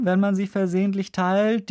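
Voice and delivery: "versehentlich" given pointed emphasis inside the phrase; stress on "versehentlich". Real, not acted. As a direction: lean on "versehentlich" as the key word. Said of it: "Die Betonung übrigens liegt auf versehentlich".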